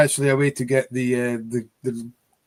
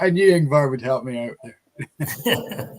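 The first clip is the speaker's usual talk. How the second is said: laughing; slower than usual. Real, not acted. Laughing after pronunciation.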